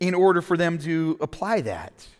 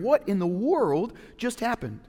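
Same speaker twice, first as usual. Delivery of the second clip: bewildered disciples; 6 semitones higher than usual. Retold or imitated. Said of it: "they're wondering".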